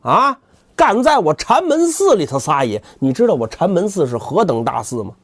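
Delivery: arrogant boast. Acted. 扫地僧发威.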